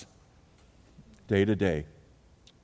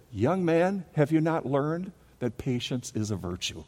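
a hint of a stern little old lady, higher; scolding old lady; 6 semitones higher than usual. Tiny older woman scolding the attendant about patience. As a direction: gently scold the young man. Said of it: "And she said".

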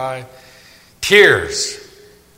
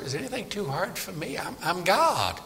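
hushed, gentle reassurance from God; quiet and sure, almost confiding; preacher quietly voicing God's promise; soft voice of God; 4 semitones higher, 9 dB quieter than usual. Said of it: "says elsewhere".

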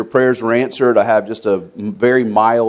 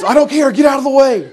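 high, pushy barked order; retold holler; 14 semitones higher, 3 dB louder than usual. Hill attendant hollering at the injured pastor to move. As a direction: shove him off the slope with your voice. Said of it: "he's hollering at me".

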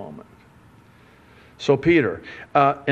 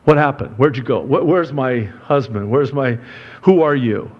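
stunned spouse; 4 dB louder than usual. Retold or imitated. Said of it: "they'd probably look at you going".

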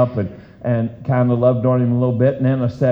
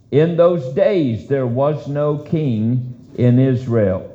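slow scripture reading; slower than usual. Real, not acted. Reading verse.

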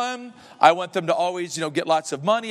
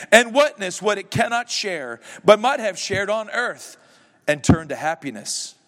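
a hint of a solemn ghost, slightly raised; lightly voiced ghost; 4 semitones higher than usual. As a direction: read the ghost's lament with mild gravity. Reads Marley's ghost speech.

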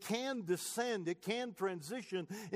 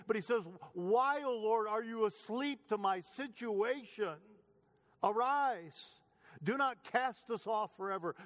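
raised, urgent lament read aloud; preacher voicing the psalmist's anguish; pleading psalm reading; 3 semitones higher than usual. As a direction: cry out the psalm like your own complaint.

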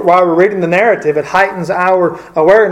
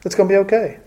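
reassuring; 4 semitones higher than usual. Retold or imitated. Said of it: "she's saying".

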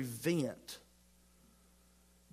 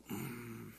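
disapproving growl hum; 5 semitones lower, 14 dB quieter than usual. Shown as a demonstration. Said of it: "you may growl at them".

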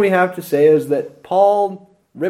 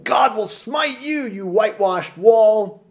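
mock rebuke; 6 semitones higher than usual. Preacher imitating Paul cursing the high priest, a touch angry. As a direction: hurl the curse back at him, half in jest. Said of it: "shoots off his mouth".

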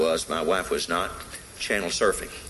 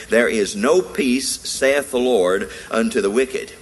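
solemn scripture reading; 3 dB louder, slower than usual. Real, not acted. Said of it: "and it says".

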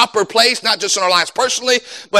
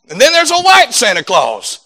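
higher-pitched imitation of an excited child; young son; 3 semitones higher than usual. Son spotting Santa ornaments at Walmart, imitated child. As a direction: point it out to Dad like a kid. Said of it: "and my son, he says".

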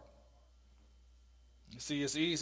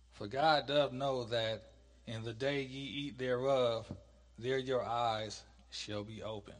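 slow, measured Bible reading; scripture reading; slower than usual. Acted. Teacher reads the serpent's words to class, scripture reading. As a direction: read the verse out in deliberate phrases.

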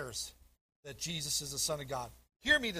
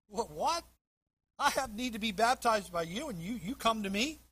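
higher-pitched, taken-aback questioning; incredulous protest; 4 semitones higher than usual. Acted. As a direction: act out John balking in disbelief. John protests at baptizing Jesus.

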